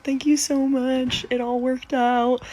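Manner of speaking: grateful client. Retold or imitated. Client calls to thank her.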